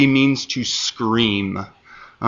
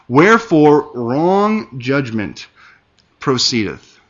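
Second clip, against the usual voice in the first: scripture reading. Acted. Reads verse three aloud.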